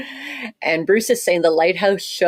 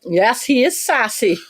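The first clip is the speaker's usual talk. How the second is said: laughing; 6 semitones higher than usual. Real, not acted. Teasing husband, laughing.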